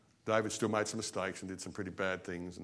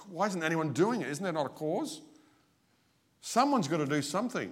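raised, urgent pleading voice; a stirred young David demanding someone act; stirred cry; 7 semitones higher than usual. Retold or imitated. Preacher voicing young David, urgently higher.

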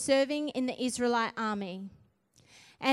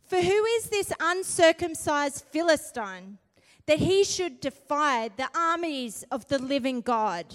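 bold challenge; 3 dB louder than usual. Retold or imitated. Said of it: "he comes out with this".

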